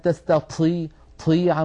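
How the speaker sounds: "تستطيع، طيع" with air flowing out of the ط; aspirated, breathed ṭa. Shown as a demonstration. Teacher mocking up the faulty reading, "طيع" with rushing air. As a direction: puff through the ط in "طيع". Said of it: "مع هذا الهواء المتدفق".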